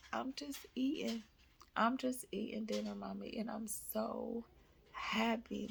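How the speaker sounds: put-on high, soft child voice; imitating tearful happy son. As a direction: quietly voice a moved kid. Son tearful at dinner, retold.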